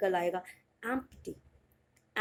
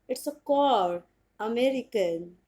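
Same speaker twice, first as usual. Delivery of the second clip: American pronunciation; much slower than usual. Shown as a demonstration. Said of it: "एक बार फिर से बता देती हूँ".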